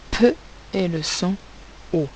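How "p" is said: "P" as a short puffed sound, not the letter name; isolated phoneme. Shown as a demonstration. Teacher sounding out the syllable po, "P" isolated and puffed. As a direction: pop "P" out alone, set off by pauses.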